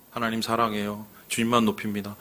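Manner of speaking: 속삭이듯 낮게 고백하듯; devout confession. Retold or imitated. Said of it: "고백을 얼마나 많이 합니까?". (신자가 하나님께 바치는 낮고 부드러운 고백)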